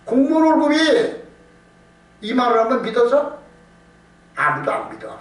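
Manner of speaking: usual speaking voice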